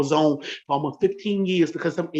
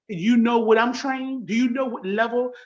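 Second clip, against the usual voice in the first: heated challenge; 4 semitones higher than usual. Real, not acted. Woman confronting her husband's relative, raised and challenging. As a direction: pitch raised, pressing each question. Confronting the Army man on camera.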